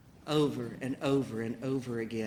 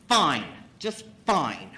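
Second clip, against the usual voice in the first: clipped fine; 5 dB louder, slower than usual. Retold or imitated. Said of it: "I said".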